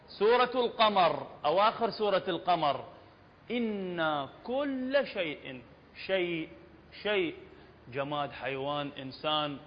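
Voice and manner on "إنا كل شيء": slow, measured verse recitation; measured tajweed delivery; Quran recitation. Shown as a demonstration. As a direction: recite the verse unhurriedly with drawn vowels.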